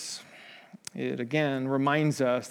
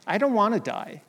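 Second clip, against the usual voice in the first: raised pleading cry; 6 semitones higher than usual. Retold or imitated. Preacher voicing Jesus crying out to God in the garden. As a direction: pitch it up high on I don't wanna die. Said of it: "he's crying out to God".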